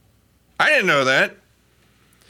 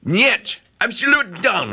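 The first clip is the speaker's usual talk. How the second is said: mock Russian; 6 semitones higher than usual. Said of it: "Putin go".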